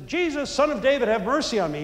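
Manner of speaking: calling out, lightly acted; retold shout. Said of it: "He shouts it out".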